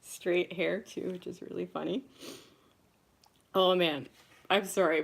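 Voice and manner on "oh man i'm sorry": laughing. Real, not acted. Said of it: "I'm crying 'cause I'm just remembering".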